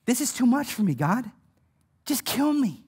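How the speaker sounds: subdued mock despair; at wits' end. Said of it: "he was driven mad to that point".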